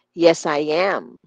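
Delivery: slow, with YES and AM strong, "I" light; stress YES and AM. Shown as a demonstration. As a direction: lean on "Yes" and "am", skim "I". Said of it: "Yung yes at saka yung am".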